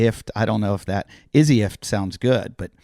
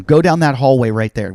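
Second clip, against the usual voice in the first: mock yelled order, louder; retold yelling; 2 semitones higher, 6 dB louder than usual. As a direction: imitate a guard ordering someone along. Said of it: "guys are yelling at me".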